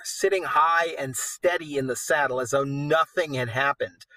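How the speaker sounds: steady storyteller reading aloud; story narration. A narrator's reading. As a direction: read it like an epic tale. Reads the poem aloud.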